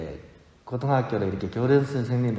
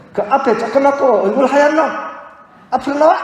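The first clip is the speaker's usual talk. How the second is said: drill teacher yelling; 13 semitones higher, 8 dB louder than usual. Retold or imitated. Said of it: "근데 제가 딱 걸렸죠".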